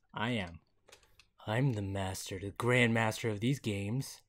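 a light menacing game-master boast; creepy voice. Acted. To the stuck player, gloating as the new Jigsaw in a lightly creepy voice. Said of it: "it's a creepy voice".

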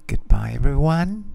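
voiced, lips close to the mic; right in your ear. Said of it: "I'm going to whisper in my microphone".

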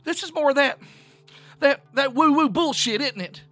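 high, loud rant rising to a shriek; hysterical sobbing. A narrator's reading. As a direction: build from frantic protest to full hysteria. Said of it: "fell silent with a sob".

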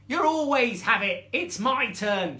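high, loud squabbling cub; shrieking cub. Acted. Second cub fighting its sibling for a turn, mock shriek. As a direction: protest loudly like a jealous sibling. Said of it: "shrieked the second".

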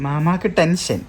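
playful teasing echo; teasing repeat. Shown as a demonstration. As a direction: tease the uncle playfully. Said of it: "ആശിൻ്റെ ആമി വരായിട്ട്".

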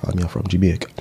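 mock Jamaican accent.

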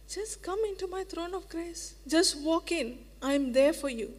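soft, quiet reassuring welcome; tender assurance. Acted. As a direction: gently open the door for them. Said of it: "But God says".

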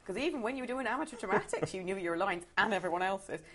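put-on mum quoted in a West Country accent. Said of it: "quite good West Country accent".

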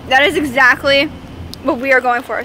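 talking through a mouthful of boba; words round a mouthful of boba; mouth full. Real, not acted. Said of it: "Sorry, I have boba in my mouth".

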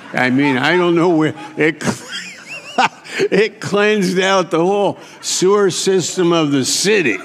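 laughing through the words, jumping high; cracking up at his own story. Real, not acted. Preacher laughing at the drunk fish story.

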